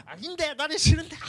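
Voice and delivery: put-on high whiny child refusing; child's voice. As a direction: play the kid saying no, way up high. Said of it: "이렇게 막 하는 거야".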